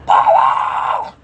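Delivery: shouted name across the yard; yelling child's full name. Retold or imitated. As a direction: call the name out loud. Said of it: "why is you yelling my name out here".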